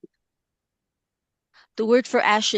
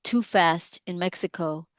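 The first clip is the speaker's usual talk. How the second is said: poem reading. Acted. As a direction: read the poem deliberately, letting lines land. Reads her poem aloud.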